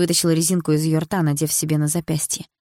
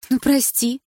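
a scornful, higher «Ну, прости»; snorting sorry; 7 semitones higher, 3 dB louder, slower than usual. A narrator's reading. Milana sarcastically brushing off the narrator's reproach, scornful. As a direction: toss off a sarcastic apology. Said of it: "вдруг фыркнула она".

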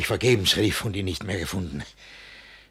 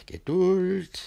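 Geduld higher, tense; strained patience; 9 semitones higher than usual. Acted. Master urging himself to patience, higher strained Geduld. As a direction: force out Geduld through rising anger.

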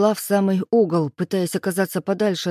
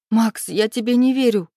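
each word rapped out, higher and louder; firm, accusing statement to Max; clipped and firm; 5 semitones higher, 4 dB louder than usual. A narrator's reading. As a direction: spell out distrust word by word. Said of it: "отчеканила я".

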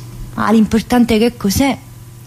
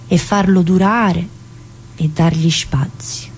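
measured reading. Acted. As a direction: read it out like a solemn quote. Rereads Calvino quote aloud.

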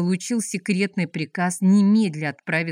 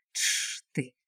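hissed shush, much softer; sharp hush; 6 semitones lower, 8 dB quieter than usual. Acted. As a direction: silence him with a hiss. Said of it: "шикнул Рябой". (резкое шиканье)

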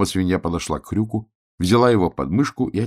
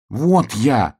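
a bit louder call; shouting; 6 semitones higher, 5 dB louder than usual. A narrator's reading. Hrjuk shouts so the dandelion notices him. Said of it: "крикнул Хрюк".

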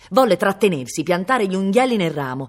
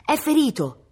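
high-pitched urgent cry; shouted alarm; 10 semitones higher than usual. A narrator's reading. Boy tells his mother of the wounded brother, shouting. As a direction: cry out the bad news.

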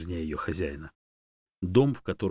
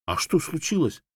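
higher, eager question; anxious; 9 semitones higher, 4 dB louder than usual. A narrator's reading. Dog anxiously questioning monkey while hurrying. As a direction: ask breathlessly on the move. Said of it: "взволнованно спросил я".

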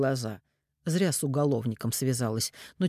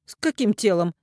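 higher, louder disbelief; startled question; 6 semitones higher, 7 dB louder than usual. A narrator's reading. Mother hears of a body, startled. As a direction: caught off guard.

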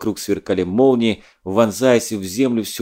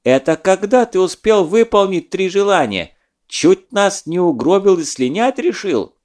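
loud, raised angry accusation; 8 semitones higher, 4 dB louder than usual. Acted. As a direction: call out the cheat. Zadov furious at genie.

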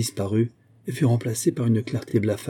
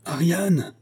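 high, drawn call without much volume; 8 semitones higher than usual. A narrator's reading. Constantin calls the missing Ariane, crying out. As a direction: call out the name from afar. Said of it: "cria la voix plus mâle de Constantin".

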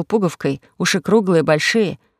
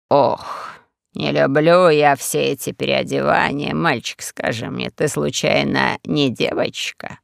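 lightly voiced sly old host, drawn out slowly; slow, low old prince; 4 semitones lower, slower than usual. Castle host Semiis mocks Rashid, slow and low. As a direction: speak as a smug old prince, unhurried and low.

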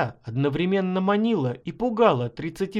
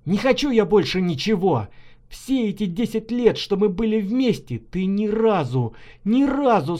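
angry outburst; 4 semitones higher than usual. Acted. Husband's angry outburst at wife.

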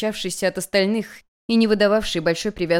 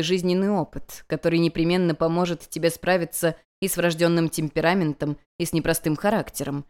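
gentle, calming master, a bit softer; lightly soothing mentor. Acted. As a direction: soothe a hysterical student. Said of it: "мягким и успокаивающим голосом".

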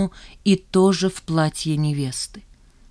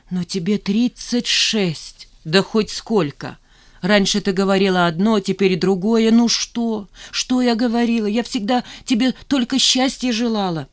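put-on a higher, hurt old mother's voice; mother's lament; 4 semitones higher than usual. Mother reminding Nina of her age, lament. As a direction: reproach her gently.

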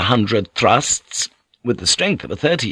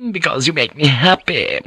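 sighed; 5 semitones higher than usual. Acted. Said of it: "she sighed".

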